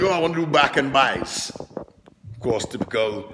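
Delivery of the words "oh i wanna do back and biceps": a hint of a casual gym client; lightly voiced client. Retelling a gym client's casual request, lightly imitated. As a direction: toss it off like the client. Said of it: "He was like".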